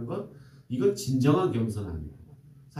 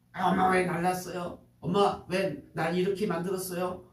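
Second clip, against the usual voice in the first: put-on higher whiny child protesting to mom; a child complaining to mother, pitched up; child's protest; 5 semitones higher than usual. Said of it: "하고 항의해요".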